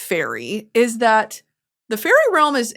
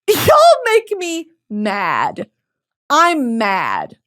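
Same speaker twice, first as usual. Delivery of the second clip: laughing mad; 4 semitones higher, 4 dB louder, much slower than usual. Real, not acted. Laughing rant at booktok.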